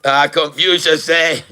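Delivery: slow put-on Chinese accent; mock Chinese accent. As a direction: intone it slowly in a fake Chinese accent. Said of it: "I'll talk like a Chinese".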